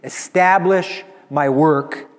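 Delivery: slow, drawn-out proclamation of victory; confident, victorious. Acted. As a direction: declare it with complete confidence. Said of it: "with the complete confidence of victory".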